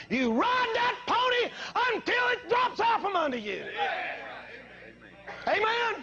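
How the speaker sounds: rally the crowd to keep going; fiery revival shout; preaching shout. Acted.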